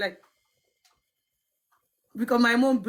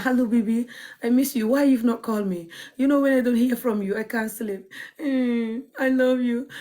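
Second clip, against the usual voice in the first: flirty pet-name sweetness, mildly put on; cheeky romantic; 3 semitones higher than usual. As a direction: coo like a cheeky lover on the phone. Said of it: "I'm very cheeky and romantic".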